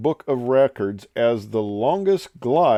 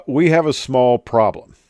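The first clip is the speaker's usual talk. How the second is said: British captain's measured announcement; lightly put-on British captain; British captain accent; 2 semitones higher, 4 dB louder than usual. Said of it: "when the captain says".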